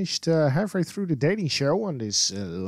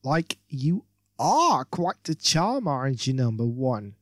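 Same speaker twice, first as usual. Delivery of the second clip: gushing. Acted. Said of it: "she gushes".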